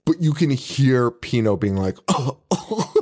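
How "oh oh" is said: gasping. Retold or imitated. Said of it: "Gasping for breath".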